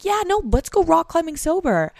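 high, chirpy goody-goody friend; peppy friend voice. Acted. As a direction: sell it like a cheerful camp counselor. Voicing sober friend cheerfully.

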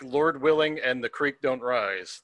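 slow drawn-out folksy Southern saying; slow homespun American drawl. Shown as a demonstration. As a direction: lean into the Southern twang, slowly. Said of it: "that's an American expression".

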